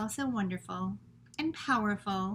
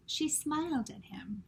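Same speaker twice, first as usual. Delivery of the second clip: soft unvoiced whisper; 4 semitones higher, 4 dB quieter than usual. A narrator's reading. Teacher reading to class, whispering the tender moment. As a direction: hush it like a secret.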